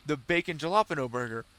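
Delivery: "jalapeno" with a hard J, repeated innocently; deliberate mispronunciation. Retold or imitated. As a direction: say "jalapeno" as spelled, with an English J. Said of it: "I know I'm saying it wrong".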